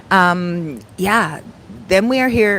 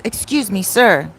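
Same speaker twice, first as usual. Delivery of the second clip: lightly voiced military man; a touch of soldierly formality, sir hit harder; militant soldier. Soldier addressing a stranger in Burger King, lightly militant voice. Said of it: "in a very military, like, militant voice".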